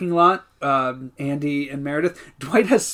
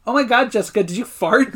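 lightly raised teasing accusation; mock Kelly; 5 semitones higher than usual. Podcaster imitating Kelly teasing Jessica, lightly raised. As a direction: tease her about farting. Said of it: "Kelly just goes".

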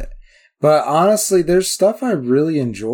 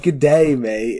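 imitated Australian greeting; mock-Australian catchphrase; Australian accent; slower than usual. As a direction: quote it with an Aussie twang. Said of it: "I don't think she ever said".

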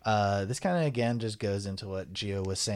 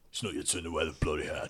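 mock British accent; 5 semitones lower, 5 dB quieter than usual.

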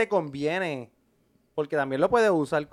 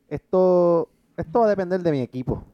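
mouth at waterline. Real, not acted. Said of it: "Ahora no escuchas que estás debajo de la sábana".

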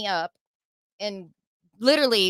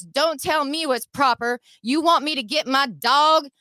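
higher-pitched imitation of a cop's threat; threatening cop; 5 semitones higher, 3 dB louder than usual. Cop threatens driver with his dog, confrontational. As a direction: throw the threat back, mimicking the officer.

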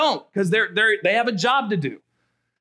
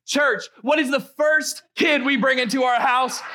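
building shout; 6 semitones higher than usual. Real, not acted. Pastor builds to a reveal.

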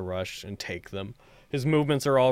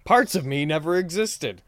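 woman's voice; 7 semitones higher, 7 dB louder than usual. Acted. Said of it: "a woman's voice".

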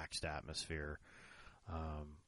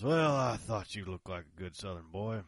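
put-on old country boy; 4 semitones higher, 8 dB louder than usual. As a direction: stretch out the offer like a sly old-timer. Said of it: "from an old boy out there".

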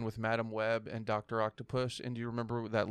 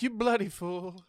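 higher and slow, odd squawk; duck voice; 7 semitones higher, slower than usual. Retold or imitated. Friend repeating the duck's words for laughs. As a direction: drag it out like a bird. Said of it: "he's like".

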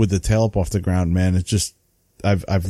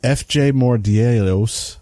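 put-on New England accent; slower than usual. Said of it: "That's my New England accent".

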